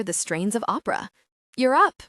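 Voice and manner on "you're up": loud, high, piercing call. A narrator's reading. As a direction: pierce the air with it. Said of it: "she says in a piercing voice".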